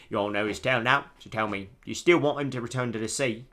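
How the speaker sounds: storyteller with a mock British accent; awful British accent. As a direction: ask it in a bad British accent. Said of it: "my awful British accent".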